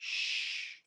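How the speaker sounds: soft whispered shh; breathy shh for silence; whispered hush. Acted. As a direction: hush the listener gently. Hush at the end of the poem.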